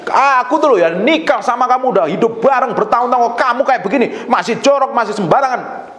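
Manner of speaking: high-pitched running complaint; acted wifely grievance; nagging wife. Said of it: "kadang istri ngomong begini".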